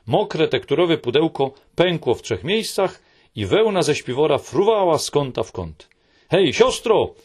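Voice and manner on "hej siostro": high, loud call to her sister; Little My calling her sleeping sister, loud. Acted. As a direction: shout to wake her up. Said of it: "zawołała mała Mi".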